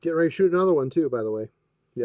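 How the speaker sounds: muffled, like talking from a closet; muffled and boxed-in, far from the mic. Real, not acted. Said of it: "you sound like you're in a closet".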